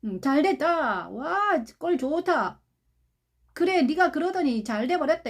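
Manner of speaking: drawn-out gloat, lightly acted; mock gloating. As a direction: imitate onlookers relishing someone's downfall. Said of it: "그들은 어떻게 하면 박수칩니다". (고소해하며 비꼬는 흉내)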